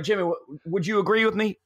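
high-pitched imitated plea for backup; outgoing tailgater. Outgoing guy seeking his friend's agreement, imitated high voice. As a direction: play an outgoing guy prompting his buddy. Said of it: "the guy was super outgoing".

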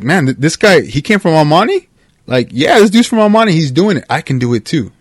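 acted excitement, pitch jumping up; inspired listener. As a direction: voice a mildly amazed fan getting fired up. Voicing an inspired, amazed podcast listener.

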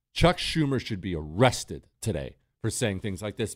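normal talking voice

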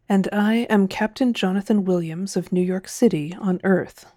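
"Captain Jonathan Williams" said evenly, nothing stressed; without emphasis. A narrator's reading. Captain introducing himself to the Martians, "Earth" without emphasis. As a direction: give "New York City on Earth" no weight at all. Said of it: "without emphasis".

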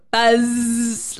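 a quick mock buzzer; buzzer sound. Shown as a demonstration. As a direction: say buzz like a buzzer. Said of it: "I'm gonna give it a go".

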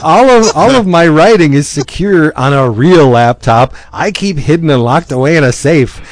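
high, loud gloating with a laughing shout; triumphant heroine. Retold or imitated. Heroine boasting to her editor about the real laptop, loud and gleeful. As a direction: crow about the decoy laptop. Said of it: "And she goes".

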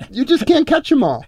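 laughing through a joke line. Real, not acted. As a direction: chuckle the words out. Laughing punchline.

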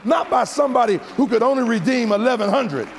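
preacher building to the altar call; preaching at full force. Acted. Preacher's closing climax.

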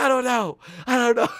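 high, loud urgent retort; reenacted hype exchange. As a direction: shout back at a hyped teammate. Shouted back-and-forth hype routine.

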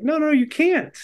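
very high, squeaky protest; a friend blocking a superstar from the crowd; mock panicked no. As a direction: shriek the refusal in comic alarm. Speaker quotes his own refusal.

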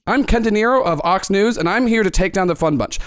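lightly pompous self-introduction; Ken De Niro reporter voice. Acted. Host introducing himself to Jerry, lightly pompous anchor. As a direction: announce yourself like a mild TV crusader. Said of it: "Does your voice always sound like that?".

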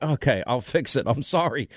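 mock contrition. Host answering angry Twitter critics, mock contrition. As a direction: give in with a token sorry. His meek reply to scolding critics.

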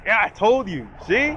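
high, loud told-you-so; gloating that they got in; mock triumphant. Imitating the wrestlers cheering as the door opens, high and loud. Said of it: "everybody's like".

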